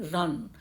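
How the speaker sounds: रन said as one unbroken beat; रन in one piece, no break inside; single syllable. Shown as a demonstration. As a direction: demonstrate रन in a single go. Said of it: "ये एक बार बोलने में आता है".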